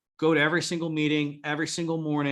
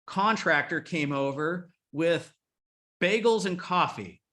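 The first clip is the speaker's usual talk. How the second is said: Brenda's gushing email. Retold or imitated.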